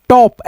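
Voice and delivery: टॉप read slowly as "ṭ-ॉ-p", short open o; slow blended reading. Shown as a demonstration. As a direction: sound out टॉप slowly, letter by letter. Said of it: "पी से प".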